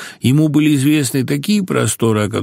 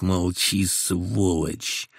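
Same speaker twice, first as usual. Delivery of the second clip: much softer, low lazy growl; lazy reply; 4 semitones lower, 8 dB quieter, much slower than usual. A narrator's reading. Caesar lazily silences the new patient: quiet, lazy growl. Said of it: "лениво ответил".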